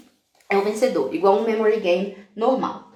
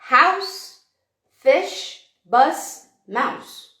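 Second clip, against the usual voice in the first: reading cards aloud; 5 semitones higher, 3 dB louder, much slower than usual. Shown as a demonstration.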